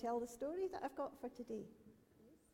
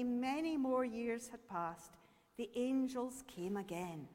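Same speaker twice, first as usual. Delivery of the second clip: story narration. A narrator's reading. Speaker tells children a story called Letting Go, measured storytelling. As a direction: tell the tale with lengthened key words.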